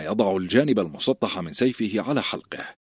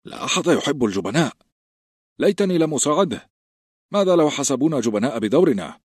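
a touch of nervous fretting, a bit higher; nervous worry; 6 semitones higher than usual. A narrator's reading. A recruit worrying to his friends about cowards, mildly anxious. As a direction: fret anxiously, lightly voiced. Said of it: "قال جيرن بتوتر".

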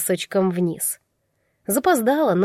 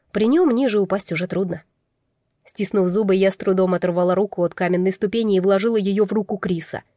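plain reading voice

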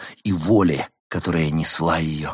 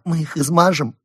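sobbing; 8 semitones higher, 4 dB louder than usual. A narrator's reading. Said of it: "всхлипнула она".

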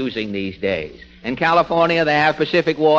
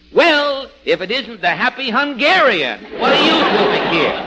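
mocking comedian surprise; 7 semitones higher than usual. Fred Allen mocks radio comedians with overdone surprise. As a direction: mimic a radio comic's fake astonishment. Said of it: "it will be".

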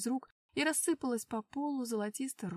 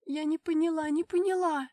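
sobbing; 6 semitones higher, 9 dB louder than usual. Acted. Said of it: "всхлипнула Эльза".

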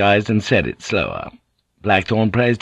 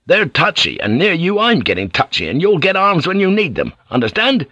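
stern, rising captain's rebuke; threatening Blackthorn. Acted. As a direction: warn a troublemaker, building in pitch.

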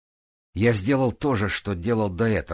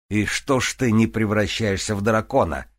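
shouting; 3 semitones higher, 4 dB louder than usual. Acted. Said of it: "крикнул Грист из-за стены".

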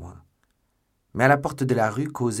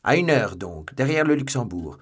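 loud, raised call, easing off; raised-voice challenge to meet; calling after someone; 3 semitones higher, 7 dB louder than usual. A narrator's reading. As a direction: call the appointment after a departing rival. Calling a rendezvous after him.

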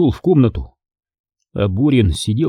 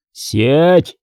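barked; 5 semitones higher than usual. Acted. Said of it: "рявкнул комбат".

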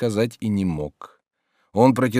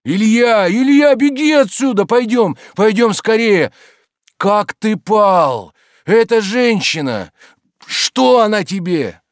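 much higher, louder, alarmed pleading; horrified urging; 12 semitones higher, 8 dB louder than usual. A narrator's reading. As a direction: beg him to flee, aghast. Stolz horrified, urging flight. (в ужасе, выше и громче)

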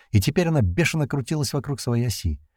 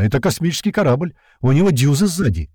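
high-pitched, louder delighted report; gleeful yell; 5 semitones higher, 4 dB louder than usual. A narrator's reading. Pilot radioing that he has found a spaceship, gleeful yell. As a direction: announce a thrilling find. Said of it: "завопила рация довольным голосом казака".

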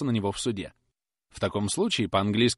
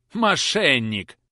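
slow, louder furious bark; angry exclamation; 5 semitones higher, 6 dB louder, much slower than usual. Acted. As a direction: spit the word out. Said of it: "вскричал мистер Каркер". (гневный возглас Каркера, медленно)

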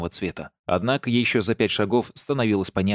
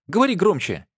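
high, loud call to be heard; loud impatient call; 9 semitones higher, 4 dB louder than usual. A narrator's reading. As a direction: shout it across the room. Shouting to be heard.

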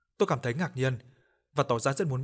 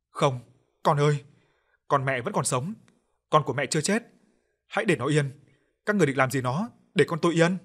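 sobbing plea; 3 semitones higher, 5 dB louder than usual. Acted. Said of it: "Bà Cảnh khóc nức lên".

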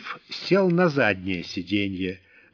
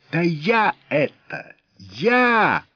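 louder, laughing in his own voice; 7 semitones higher, 4 dB louder, much slower than usual. A narrator's reading. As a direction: drop the act, cheerfully. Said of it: "ответил волк своим обычным голосом".

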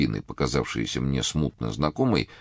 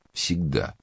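grumbling. A narrator's reading. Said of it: "я буркнул".

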